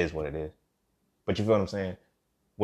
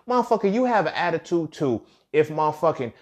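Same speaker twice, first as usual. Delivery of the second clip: higher, impassioned comeback; heated retort; 5 semitones higher than usual. Real, not acted. Answering men who judge women's attitude, heated retort. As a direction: fire back in her defence.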